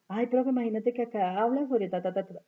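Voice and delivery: a hint of the eager student. Student telling the professor, lightly voiced eager pupil.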